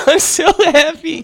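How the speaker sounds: happy line. Shown as a demonstration. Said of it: "Like, if I was saying".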